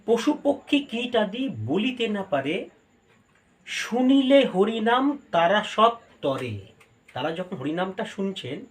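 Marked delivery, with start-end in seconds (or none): 0.0-6.6 verse recitation. Acted. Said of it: "ওই জন্য বলছে".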